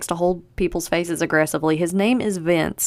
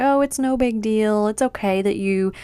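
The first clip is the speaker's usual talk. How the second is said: fake nice; 4 semitones higher than usual. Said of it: "is playing all nice".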